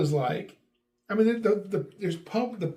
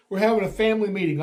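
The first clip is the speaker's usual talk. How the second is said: louder, fast call; loud announcement; 3 semitones higher, 4 dB louder, much faster than usual. Retold or imitated. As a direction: announce it loudly and quickly. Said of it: "I yell".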